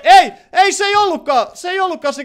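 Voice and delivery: high, loud outburst of confusion; startled protest. Real, not acted. Player realising it was the wrong target, startled protest. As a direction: cry out in sudden dismay.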